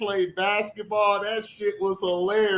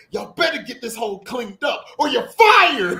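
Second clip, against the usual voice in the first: mock angry boss; 3 semitones higher, 3 dB louder than usual. Vincent yelling at the workers.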